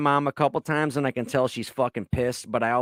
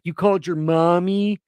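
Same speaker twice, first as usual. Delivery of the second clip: a mildly higher, louder taunting sneer; lightly imitated mocking jeer; mocking girl; 6 semitones higher, 4 dB louder than usual. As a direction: tease him like a snotty twenty-year-old. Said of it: "she's making fun of me and talking shit".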